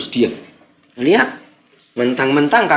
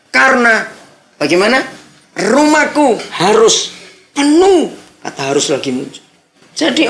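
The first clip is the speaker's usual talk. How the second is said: fiery preaching; 6 semitones higher than usual. Acted. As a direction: preach it out to the congregation. Preaches the verse at full force. (berkhotbah dengan suara keras dan berapi-api)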